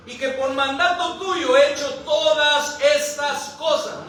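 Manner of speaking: slow, fervent proclamation; declaimed prayer. Acted. Elías prays before the altar, slow fervent declamation.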